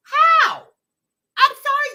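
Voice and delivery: loud drawn-out sorry. Real, not acted. Streamer apologizing to chat with a loud drawn-out sorry. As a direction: wail sorry to the chat, slowly.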